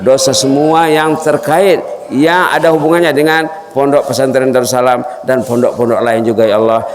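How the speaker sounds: earnest prayer voice, lightly chanted; closing prayer. Acted. Preacher prays for the Darussalam students, earnest devotion. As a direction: pray over the students with devotion.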